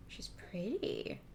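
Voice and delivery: hushed whisper, slow. Real, not acted. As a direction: breathe it like a secret compliment. Whispered repeat after admiring.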